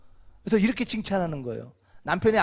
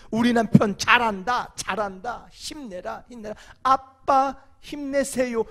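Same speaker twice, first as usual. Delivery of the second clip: cheering wife; 3 semitones higher, slower than usual. Pretend. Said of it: "요게 애들만 하는 게 아니에요".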